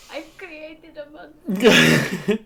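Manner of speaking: high, loud, slow hammed-up wail; mock horror.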